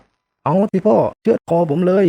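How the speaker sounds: high, slow taunting dare at his father; defiant dare. Acted. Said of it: "ก็ท้าว่า".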